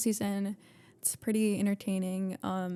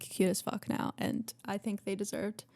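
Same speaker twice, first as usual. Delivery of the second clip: whispered; 5 dB quieter than usual. Real, not acted. Whispered aside.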